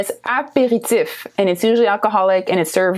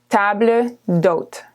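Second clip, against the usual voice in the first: table d'hôte said slowly; slow model; slower than usual. Shown as a demonstration. Teacher slowing table d'hôte for learners. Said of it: "and it's called table d'hôte".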